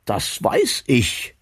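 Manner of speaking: slow, amused reply with a smile; smiling. A narrator's reading. Bertha, amused by Martin's anger, answers smiling. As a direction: draw it out, faintly amused. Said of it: "sagte er lächelnd".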